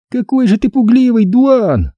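put-on girl sneering. A narrator's reading. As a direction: needle him. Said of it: "принялась язвить Стеф". (язвительная девочка)

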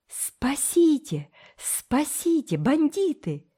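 high, drawn-out panicked call; boy crying out in despair; desperate cry for help. A narrator's reading. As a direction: scream for rescue in terror. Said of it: "отчаянно закричал Томык".

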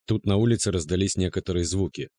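plain reading voice

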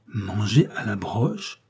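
slow, stunned disbelieving echo; shocked question, drawn out; incredulous cry. Acted. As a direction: repeat it as if you can't believe it. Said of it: "m'écriai-je".

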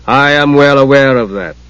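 measured, even-toned god; Paladine. A narrator's reading. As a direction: say it evenly, with grave authority. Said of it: "said Paladine".

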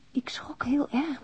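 slow, soft whispered; whispered shock. Acted. Admitting her fright to Philip, slow whisper. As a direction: let the fright barely escape. Confession letter read aloud.

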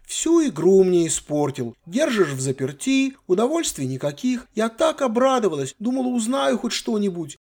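put-on high, childish complaining voice; spoiled girl. Granddaughter complaining to her grandfather, high and childish. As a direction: whine like a bored teenage girl. Sylvia's voice in the story.

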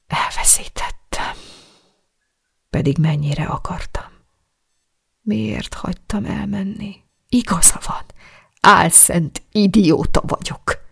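broken, hushed weeping words; sobbing whisper. A narrator's reading. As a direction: whisper through tears into the pillow. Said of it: "zokogta a párnába".

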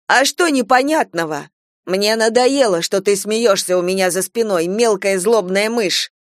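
Flo, fed up, yells at Lee; angry outburst. Acted. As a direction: spit it at the timid girl.

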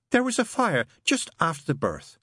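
high, put-on trance voice; entranced, hollow. Mary under hypnosis recalling the fire, hollow. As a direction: recite it emptily from under a spell.

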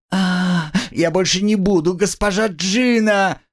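high, strained plea; whipped girl, high pleading; pained pleading. Acted. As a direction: beg through the pain. Girl corrects herself in pain.

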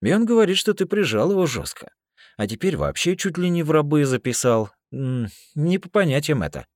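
russian prison slang. Acted. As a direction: call out a breach of the code. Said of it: "меня несло дальше".

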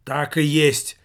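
loud triumphant cry; vindicated exclamation; exclaiming. Acted. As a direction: burst out as if proven right. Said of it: "воскликнул Михалыч".

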